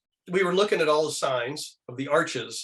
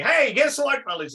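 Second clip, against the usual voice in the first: a hint of a cartoon dad, higher and louder; chirpy cartoon greeting, pitched up; George Jetson; 10 semitones higher, 3 dB louder than usual. Retelling the Jetsons voice actor, lightly done cartoon dad. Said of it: "used to do the voice of George Jetson".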